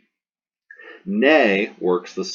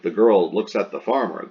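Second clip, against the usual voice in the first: put-on "the girl looks at the farmer" stated, voice dropping on farmer; declarative statement; 4 dB louder than usual. Shown as a demonstration. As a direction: say it as a statement, falling at the end. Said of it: "how do we turn this declarative".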